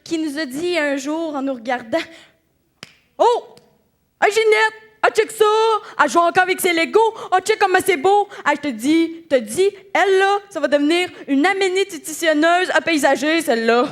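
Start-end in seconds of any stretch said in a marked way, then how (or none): 3.2-13.9 gushing relative. Retold or imitated. Relative admiring a child playing Lego, mock gushing excitement. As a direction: gush like an aunt calling Ginette over. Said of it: "un oncle, une tante, une mère".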